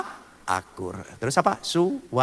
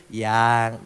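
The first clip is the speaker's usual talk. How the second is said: soft, lower loving "Yang."; tender yang; 10 semitones lower, 4 dB quieter than usual. Shown as a demonstration. Preacher shows how a husband should call his wife, tenderly. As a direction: say "Yang." gently, full of affection. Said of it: "Intonasinya itu na-, penuh nada kasih".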